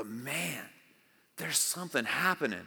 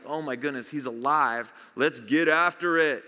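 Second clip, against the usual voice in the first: mock excited disciples; 5 dB louder than usual. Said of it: "his disciples are freaking out".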